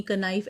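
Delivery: कनाइफ with the silent k sounded out as k-nife; कनाइफ as "ka-naif"; wrong pronunciation. Shown as a demonstration. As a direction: say कनाइफ with a spoken k, the way it is not said. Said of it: "ऐसे हम नहीं बोलेंगे".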